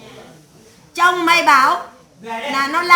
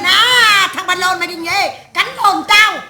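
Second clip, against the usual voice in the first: imitated ranting outcry; 2 semitones higher, 5 dB louder, slower than usual. Wife raising a clamour against her husband, ranting. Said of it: "Này lu làng lên".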